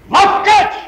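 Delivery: gleeful cry; admiring exclamation. Acted. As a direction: burst out with it in admiration. Husband muses, then exclaims.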